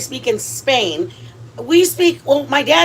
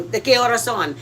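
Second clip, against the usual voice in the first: imitating parents' Spanish. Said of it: "They spoke like that".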